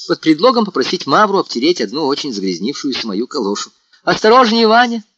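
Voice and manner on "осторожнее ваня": louder, much higher call after him. A narrator's reading. Natasha calls after Vanya as he leaves, loud warning. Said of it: "закричала она мне вслед".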